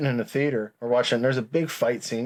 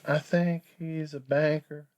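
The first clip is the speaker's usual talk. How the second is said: imitating Travis; 4 semitones higher, 4 dB quieter than usual. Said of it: "And he talked like this".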